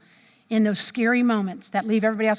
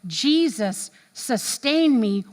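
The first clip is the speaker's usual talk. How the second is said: slow reverent quote; 2 semitones higher, 3 dB louder, much slower than usual. Retold or imitated. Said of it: "he said".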